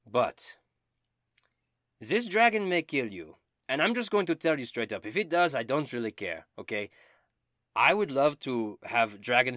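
high, loud and theatrical; Dobin, eager bard. Acted. Dobin bragging about dragon slaying, high and loud. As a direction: ham up the vainglorious bard.

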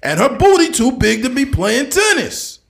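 loud, high pundit rant; Stephen A. Smith. Retold or imitated. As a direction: preach the hot take loudly. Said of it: "Stephen A. Smith impersonations".

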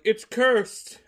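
high, loud mimicked outcry; mock alarm. Podcaster mimicking everyone's reaction to the tomb, mock alarm. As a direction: cry it out like a panicked crowd.

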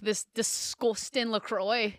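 put-on playful go at a Scouse accent; a touch of mock Scouse. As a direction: slip into Scouse for fun. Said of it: "amazing accent, if I'm being real".

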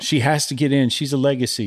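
put-on lightly drawn Southern mom accent; Southern white mom. Host mimicking a Southern mother about sorority legacies, Southern mom voice. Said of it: "my Southern white mom voice".

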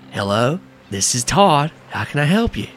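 just a hint of a laid-back guy, slowed down; Todd's voice. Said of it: "I have to do Todd's voice".

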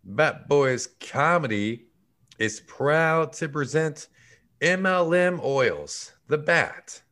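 slow, grand show announcer. Acted. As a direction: present it like a big premiere.

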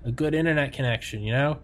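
friendly tone with a veiled threat; smiling menacing loan shark. Pretend. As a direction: lean in like a mobster collecting. Mock mafia shakedown of Tommy.

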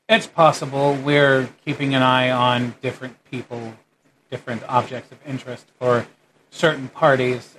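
guarded, careful official explanation; lightly voiced calm guard. Game master plays the calmer guard.

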